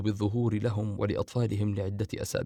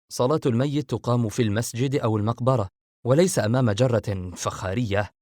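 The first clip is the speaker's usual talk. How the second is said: a touch of narrated anger, pushed harder at the end; irritated; 4 dB louder than usual. Acted. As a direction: snap back at Fahd, mildly angry. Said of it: "بندر بعصبية".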